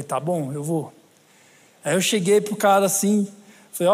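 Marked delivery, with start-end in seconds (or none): 0.0-0.9 quiet, meek yes to God; meek reply. Retold or imitated. Preacher obeying God, quiet and meek. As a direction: give in softly, a bit daunted. Obeying God's voice in retold story.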